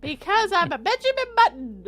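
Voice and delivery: put-on high, loud little-kid voice; five-year-old. Narrator explains getting younger, high child voice. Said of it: "Why the fuck do you sound like five?".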